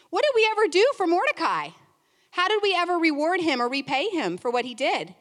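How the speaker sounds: sudden realization. Acted. King suddenly remembers Mordecai.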